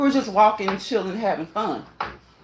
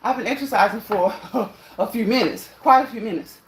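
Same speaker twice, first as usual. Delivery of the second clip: out of breath. Real, not acted. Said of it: "like the way I'm talking now".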